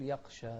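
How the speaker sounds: يغشى said as يقشى, with a hard ق for غ; mispronunciation demo. Shown as a demonstration. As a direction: swap the غ of يغشى for a hard q stop. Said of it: "في ناس تقول".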